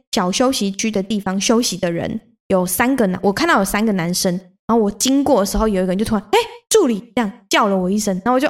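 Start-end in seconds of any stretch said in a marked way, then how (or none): 6.3-7.0 high, bright call across the trail. Retold or imitated. Hiker spotting her on the trail, calling out in surprise. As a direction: hail someone you just recognized.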